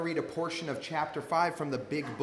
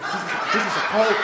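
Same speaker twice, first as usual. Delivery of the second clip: loud, higher, insistent repeat; alarmed warning; 5 semitones higher, 7 dB louder than usual. Retold or imitated. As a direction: blurt it out louder, in mock panic. Repeats warning to friend, escalating.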